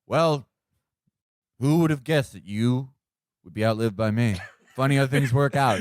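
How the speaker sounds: halting, lightly mimicked president; Trump. At Jared's mausoleum, lightly mimicked smug musing. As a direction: pause between phrases, a hint of smug musing. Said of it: "Trump is gonna be like".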